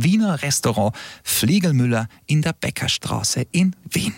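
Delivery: imitated Viennese Austrian accent; playful touch of Austrian accent. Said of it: "wie schön er den österreichischen Akzent nachgemacht".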